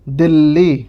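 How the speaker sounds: "दिल्ली" said slowly with a held double l; doubled l. Shown as a demonstration. Teacher modelling the pronunciation, held double l. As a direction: model "दिल्ली" as d̪ɪlːi for the class. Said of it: "इसका उच्चारण इस प्रकार से करेंगे".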